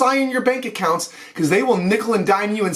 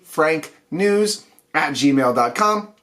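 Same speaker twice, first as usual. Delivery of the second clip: slow, clear dictation; 5 semitones lower, slower than usual. Shown as a demonstration. Host dictates the show email to viewers, slow and clear. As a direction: say "perfectly frank news at gmail dot com" slowly, word by word. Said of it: "One word".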